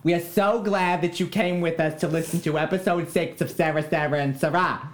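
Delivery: silly voice. Acted. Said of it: "thank yous in silly voices".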